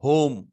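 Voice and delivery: "होम" with a long o and silent e; pronunciation demo. Shown as a demonstration. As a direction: model "होम" clearly, stretching the o. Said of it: "अब इसका pronunciation होता है".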